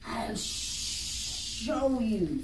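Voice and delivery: very slow, hissing-free snake drawl; slow python voice. Acted. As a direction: stretch the words out like a lazy python. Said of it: "said the python".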